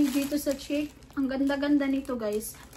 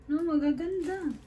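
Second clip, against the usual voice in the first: ordinary talk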